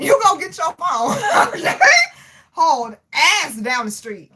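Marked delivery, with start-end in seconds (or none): 0.0-1.8 higher, through real laughter; laughing repeat. Real, not acted. Streamer retelling escape from lady at store, laughing. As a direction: crack up while repeating the reply.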